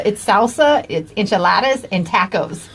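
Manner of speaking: a hint of British accent on "salsa", with a flat English a; light British accent saying "it's salsa" like Chef Robert Irvine. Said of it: "like Chef Robert Irvine, he's British".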